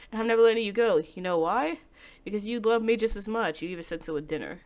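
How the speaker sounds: a hint of a hushed, menacing lover; lightly voiced calm stalker, soothing and sinister. Takuya voiced again.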